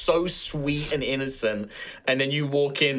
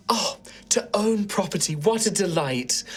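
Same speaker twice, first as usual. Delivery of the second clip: mock cheerful; 6 semitones higher than usual. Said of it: "the most seemingly sincere, cheerful smile".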